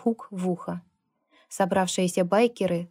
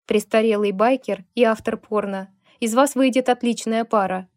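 calling out a jibe, slightly raised; mild mock yell; 2 semitones higher, 4 dB louder than usual. Kevin taunting the biker and the author, mild mock yell. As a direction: throw the taunt at them, half-shouted. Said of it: "выкрикнул он".

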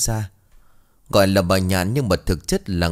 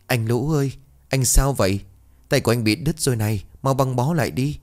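put-on worried girl; 5 semitones higher than usual. Maid finds servant's cut hand.

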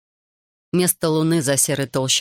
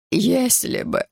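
high, plaintive exclamation; a frightened father wails at the host's joke; plaintive cry; 8 semitones higher, much slower than usual. Acted. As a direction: cry it out pitifully, much higher. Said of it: "жалобно воскликнул Лора".

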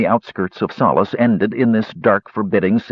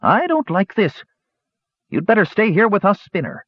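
high, bold dwarf voice; a dwarf speaking up boldly, voiced higher; 12 semitones higher than usual. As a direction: stand your ground before the soldiers. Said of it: "and said boldly".

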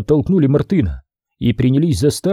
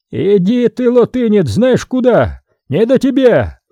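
high-pitched, irritated brush-off; snappish retort; 9 semitones higher, 3 dB louder than usual. A narrator's reading. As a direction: snap at someone pestering you. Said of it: "огрызнулся Васька".

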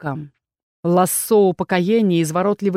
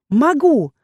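confident shout; 5 semitones higher than usual. Acted. Heroine defies the captain, shouting boldly. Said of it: "стараясь кричать как можно увереннее".

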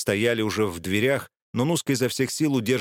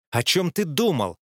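whisper yelling; 5 semitones higher than usual. Acted. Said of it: "громким шёпотом начала она".

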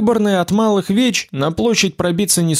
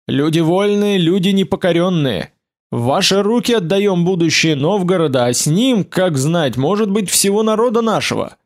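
mildly raised oratorical voice; strengthened voice; 3 semitones higher than usual. A narrator's reading. Leader addressing the free people of Novgorod, voice strengthened. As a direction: address the crowd with growing firmness. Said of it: "Затем голос его окреп".

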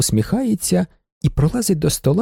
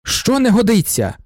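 Що не годиться? asked higher and a bit sharper; slightly irritated; 7 semitones higher than usual. A narrator's reading. Lawyer, slightly irritated, asks Lensky again what is wrong. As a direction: press Що не годиться? with mild annoyance, stressing не. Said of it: "вже трохи роздратовано перепитує".

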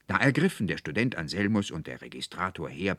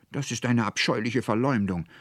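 higher, louder angry female character; indignant outcry; 7 semitones higher, 5 dB louder than usual. A narrator's reading. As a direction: protest hotly in Veronika's offence. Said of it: "rief Veronika mit zornglühenden Augen". (zornig empörter Ausruf)

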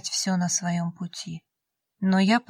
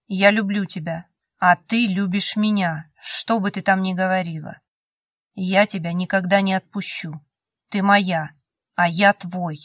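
insistent Cole; 4 dB louder than usual. Acted. Cole's insistent vow at the door.

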